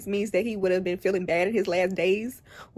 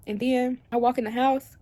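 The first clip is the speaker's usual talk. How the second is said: usual speaking voice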